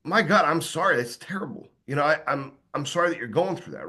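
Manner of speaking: heartfelt condolence that drops in pitch and volume; soft, sincere sympathy. Shown as a demonstration. Friend consoling someone after a significant loss, soft and sincere. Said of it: "you're gonna sound sincere".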